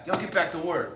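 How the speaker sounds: white boss voice. Pretend. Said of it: "I'd be a white guy".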